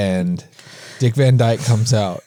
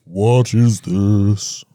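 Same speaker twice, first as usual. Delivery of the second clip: basso profundo; 2 semitones lower, much slower than usual. Shown as a demonstration. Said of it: "Basso profundo".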